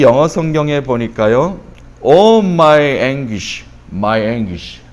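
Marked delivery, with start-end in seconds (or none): 2.0-4.8 mock-anguished sigh, sinking on the repeat; acted lament. Preacher voicing the English Bible's cry, drawn-out lament. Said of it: "이런 탄식".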